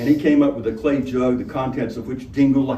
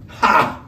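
terrible laugh; 4 semitones higher, 3 dB louder than usual. Acted. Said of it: "the robber laughed, a terrible noise".

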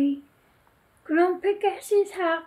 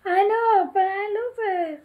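higher, lightly acted tearful protest; crying out; 4 semitones higher, 5 dB louder than usual. Grumpy to Kicker about Esme, mildly crying out. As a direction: cry it out, pitched up and pleading. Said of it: "cried Grumpy".

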